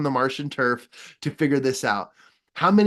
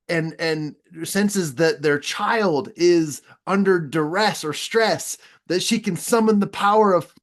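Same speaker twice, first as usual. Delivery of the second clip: urging, half-silly, a little higher each phrase; Rocket Man pleading; 5 semitones higher than usual. Retold or imitated. Rocket Man to the pinned commander, mock urgent pleading.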